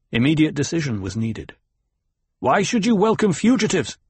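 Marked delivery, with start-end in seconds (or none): 2.4-4.0 high-pitched challenging question; sharp demand. A narrator's reading. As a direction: demand an answer. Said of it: "he demanded".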